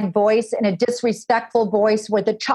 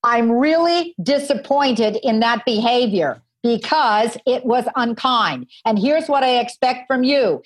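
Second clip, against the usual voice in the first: calm firm disapproval. Shown as a demonstration. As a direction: state it calmly like a steady parent. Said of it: "the most important statement you could possibly imagine".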